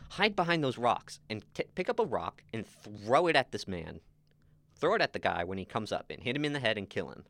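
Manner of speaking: retold villain giving commands; bossy orders. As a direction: issue urgent orders to a henchman. Vizzini ordering Fezzik to attack.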